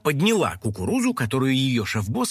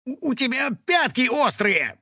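whiny complaint; 9 semitones higher than usual. Acted. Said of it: "пожаловался домовой".

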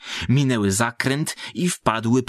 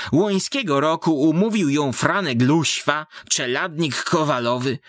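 put-on higher old woman's voice, telling a pitiful tale; gossiping village woman; 4 semitones higher than usual. Village woman tells Ksenia's story. (wysoki głos wiejskiej baby, gawędzący)

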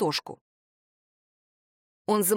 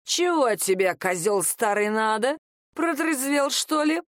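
put-on drunk voice; 3 semitones higher than usual. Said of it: "послышался пьяный голос Машеньки".

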